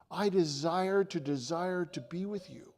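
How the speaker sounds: "desire to desire" eased back, without the punch; personal, sincere. Retold or imitated. Preacher voicing Jesus speaking to him tonight, sincerely. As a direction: say "desire to desire" as an intimate assurance.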